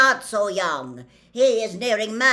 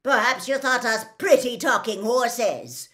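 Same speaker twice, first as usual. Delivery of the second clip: loud, raised, indignant proclamation; shouted tirade; 6 semitones higher, 12 dB louder than usual. A narrator's reading. Gray centaur proclaims an ancient people's pride, indignant shout. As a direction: declaim defiantly at full volume. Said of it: "shouted the gray centaur".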